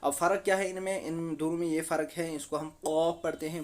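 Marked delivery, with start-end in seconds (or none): 2.4-3.6 thick "कॉफ", back of the throat; Arabic qaf; heavy qaf. Shown as a demonstration. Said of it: "मोटा पढ़ते हैं".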